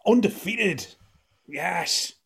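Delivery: loud, high victory cheering; triumphant celebration. Real, not acted. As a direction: crow over the win like a champion. Celebrates winning the quiz.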